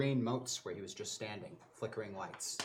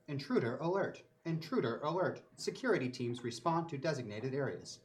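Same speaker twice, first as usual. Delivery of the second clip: automated PA voice; 2 semitones higher than usual. Acted. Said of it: "An automated voice goes through the P A system".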